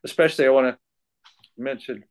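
choked up, crying while talking; catching breath midword. Real, not acted. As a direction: voice breaking with tears. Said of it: "I'm crying".

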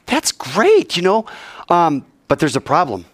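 high, sugary setup; lightly voiced schemer; sly fake friendliness. Brothers leading Shechem into their trap, high sly sweetness.

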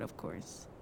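breathy whispered tag-on; tossed-off whisper; whispered aside. Acted. Whispered aside after intro.

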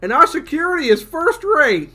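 little robot voice. Acted. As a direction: play an eager little robot. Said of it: "the little robot replies".

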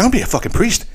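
high-pitched excited declaration; excited announcement. Retold or imitated. Movie boxer announces his epiphany, excited. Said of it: "He's all excited to tell her".

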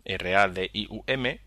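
spelling the name letter by letter; spelled out. Shown as a demonstration. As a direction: slowly spell out each letter. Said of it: "Se llama Radium".

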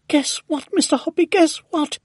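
high, loud, thrilled announcement; excited shouting. A narrator's reading. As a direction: shout amazing news up to a neighbour. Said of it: "and shouting".

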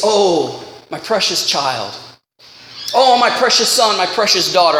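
lightly voiced tender God. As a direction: speak as a gentle father to a child. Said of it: "and he says".

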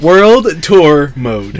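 World Tour mode said very slowly; slow careful. Shown as a demonstration. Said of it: "say it fast, though".

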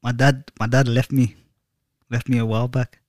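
badly faked Scottish-or-Irish accent; butchered accent. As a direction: attempt a Celtic accent and butcher it. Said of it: "He sounds like he's from Brown".

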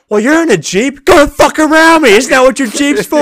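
high, loud re-enacted outburst; livid yelling. Delivery driver telling a Jeep owner to go around, livid yell. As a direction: shout back with full indignation. Acted quarrel, getting livid.

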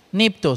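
nipto said carefully, stress on nip: NIP-to; Greek word demo. Shown as a demonstration. Preacher teaching the congregation how to say nipto, carefully. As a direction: spell out nipto slowly, two clear syllables. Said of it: "se pronuncia nipto".

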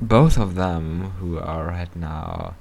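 slow, low, breathy flirt; deep flirty voice. Shown as a demonstration. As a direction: purr it to the listeners. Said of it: "say something about that voice".

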